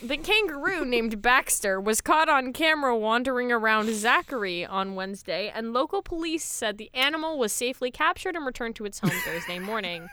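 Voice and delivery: lively read-aloud news report. Acted. Host reading co-hosts a kangaroo story, news read. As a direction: read it out like a newsreader.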